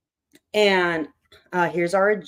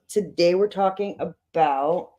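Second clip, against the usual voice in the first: usual speaking voice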